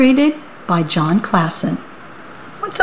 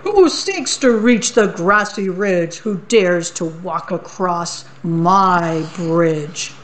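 booming troll riddle, slowing at the end; troll challenge. Acted. Troll calls up at the goat on his bridge. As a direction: demand it like the bridge is yours.

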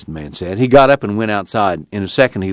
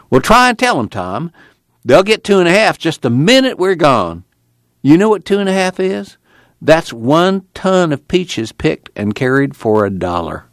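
a lightly higher preacher voice, urging; Casey's voice; 8 semitones higher than usual. Acted. Preacher urging Tom to tell the folks, lightly higher. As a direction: press Tom gently, a touch higher.

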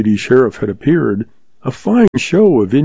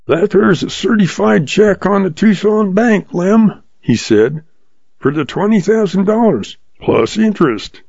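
put-on sly old outlaw; 7 semitones higher than usual. A narrator's reading. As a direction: play it cool and sure of the upper hand. Hank's held voice.

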